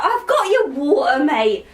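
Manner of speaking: high-pitched mock child voice; little girl. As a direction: pipe up like a pitiful little kid. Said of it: "So this little girl".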